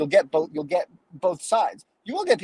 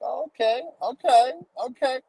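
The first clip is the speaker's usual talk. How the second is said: higher, impressed okays; hammed-up delight at the result; mock pleased surprise; 9 semitones higher than usual. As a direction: act pleasantly surprised in the mirror. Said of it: "be like".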